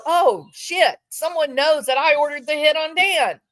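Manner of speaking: hammed-up alarmed realisation; mock panic. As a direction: blurt it like a caught culprit. Imagined panicked reaction of guilty man.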